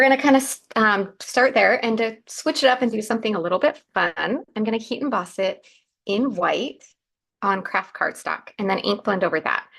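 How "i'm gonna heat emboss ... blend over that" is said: groggy just-woke-up voice, throat needs clearing; a scratchy morning voice, like the first words of the day. Real, not acted. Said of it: "Excuse my morning, uh, voice there".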